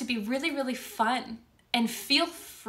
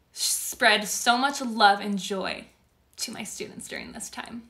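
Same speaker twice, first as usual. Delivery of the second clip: getting emotional. Real, not acted. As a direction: voice catching as she chokes up. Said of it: "I'm gonna get a little emotional".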